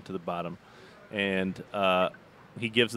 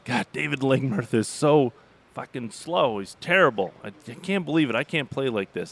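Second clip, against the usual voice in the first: complaining golfer; 4 semitones higher, 3 dB louder than usual. Retold or imitated. Compton griping to the caddie about Lingmerth, mock grumble. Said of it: "he would say".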